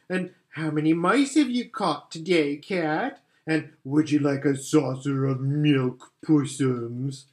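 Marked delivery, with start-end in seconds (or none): 0.5-3.2 jeering. Acted. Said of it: "jeering at him". 3.8-7.3 jeering. Acted. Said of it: "jeering at him".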